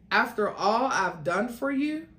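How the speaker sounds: resentful, simmering; seething. Acted. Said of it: "Seth as he queried".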